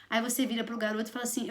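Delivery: ordinary delivery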